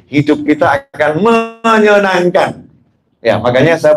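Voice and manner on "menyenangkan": drawn out. Real, not acted. Stretches the word for emphasis.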